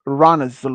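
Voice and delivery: "Uranus" as ih-RAH-nus; "Uranus" with a short start, then RAH-nus; variant pronunciation. Shown as a demonstration. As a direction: say "Uranus" with open AH in the middle. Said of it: "There are different ... how to pronounce".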